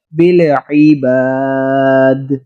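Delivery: بالعباد with ع squeezed from the throat and a bounce on the final دال, slow; throaty ain. Shown as a demonstration. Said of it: "عین حلق سے لفظ کو جیسے نچوڑے".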